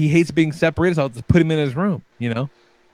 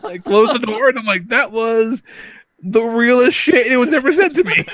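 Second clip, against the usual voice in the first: much higher, laughing through the words; laughing while telling; 9 semitones higher than usual. Real, not acted. Father retelling his son's insult, laughing through it. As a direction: tell it while cracking up.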